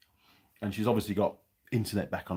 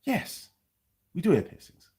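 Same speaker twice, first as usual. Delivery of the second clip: much higher-pitched lady's voice; imitated pharmacy lady; 10 semitones higher than usual. Pharmacy lady answering a customer, imitated high voice. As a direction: play the shop lady answering, pitched right up.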